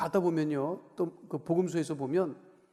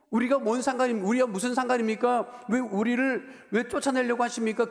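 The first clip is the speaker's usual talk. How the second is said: mock demon cry; 6 semitones higher, 4 dB louder than usual. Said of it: "소리 질러서".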